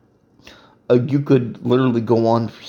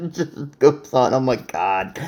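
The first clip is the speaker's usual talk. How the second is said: laughing helplessly; slower than usual. Real, not acted. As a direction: laugh your way through the words. Overcome by the endless texts.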